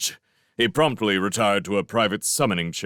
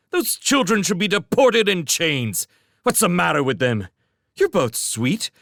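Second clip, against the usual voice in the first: high, loud, fast outraged rant; indignant rant; 12 semitones higher, 4 dB louder than usual. A narrator's reading. Master ranting at his orphan servants, outraged. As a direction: vent fury at the world.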